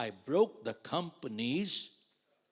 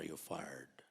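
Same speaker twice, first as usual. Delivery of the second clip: whispered firing; 8 semitones lower, 8 dB quieter than usual. Retold or imitated. Manager firing the speaker.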